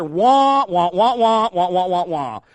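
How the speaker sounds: muffled trombone wah-wah, falling away; Charlie Brown's teacher. Retold or imitated. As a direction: mimic the garbled adult voice. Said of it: "Charlie Brown's teacher".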